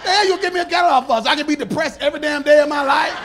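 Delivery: laughing outrage. Retold or imitated. Mock outrage at catalog.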